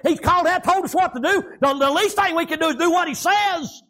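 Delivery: high, driving country sermon delivery; full-force preaching. Real, not acted. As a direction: preach it out hard, drawing out the line ends.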